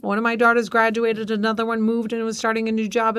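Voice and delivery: usual speaking voice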